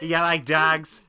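put-on loud, slow, slurred Irish Traveller accent, "dags"; Brad Pitt in Snatch. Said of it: "fully commits to being unintelligible".

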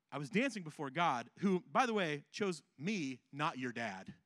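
understated calm reply; calm and wise. Acted. David answering Michal, calm and understated. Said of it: "very calm".

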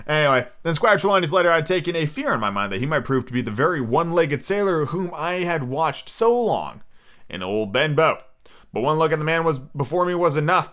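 animated audiobook reading; young hero recounting his tale; story narration. A narrator's reading. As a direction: read the adventure aloud with lively emphasis. Reads the novel aloud.

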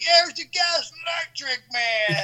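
put-on friend's father teasing about old pranks, laughing. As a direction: rib him like an old friend's dad. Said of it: "He's like".

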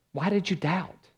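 softly voiced question, lightly acted; gentle questioning. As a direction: ask it softly, as Jesus to Peter. Jesus gently questions sinking Peter.

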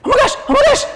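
very high, loud excited squeal; little brother squeal. Retold or imitated. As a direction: shriek with a small boy's glee. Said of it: "His brother goes".

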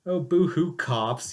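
mock boo-hoo, sarcastic; fake crying. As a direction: sneer a mock sob at cops. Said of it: "mocking cops' complaint".

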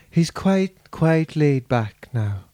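put-on slow, laid-back Donegal accent; a singer's voice. Host trying a singer's voice, slow Donegal accent. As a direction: ease slowly into a Donegal lilt. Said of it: "what a singer sounds like".

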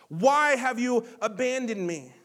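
loud, pleading cry of abandonment. Retold or imitated. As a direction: shout the question up to God. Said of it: "screaming this at the top of his lungs".

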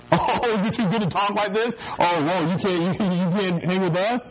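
imitating a jeering teenager; mocking taunt. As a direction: tease him like a schoolyard bully. Imitating kids mocking a good kid.

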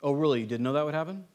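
a snide little dig dressed up as surprise; passive-aggressive. Retold or imitated. Pastor mimicking a passive-aggressive reply, lightly sarcastic. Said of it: "passive-aggressive".

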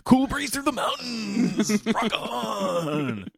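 high, slow laid-back surfer; surfer dude voice. Retold or imitated. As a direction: drift it out like a beach stoner. Mocking Keanu as surfer.

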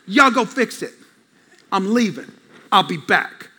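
understated dad giving orders; dad flow. Retold or imitated. Dad leaving sons with the chore, offhand dad flow. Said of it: "That's called the dad flow".

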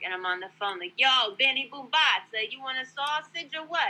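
hammed-up loudmouth shopper on the phone; Vinny Boombatz. Maskless Walmart shopper yakking on the phone, hammed-up loudmouth. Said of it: "It's, like, Joe Vinny Boombatz".

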